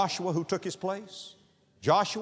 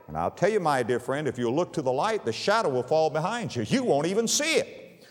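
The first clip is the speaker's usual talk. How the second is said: preaching; 4 dB louder than usual. Acted. Preacher urging the hurting to look to the light, full-force preaching. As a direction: preach it out to the congregation.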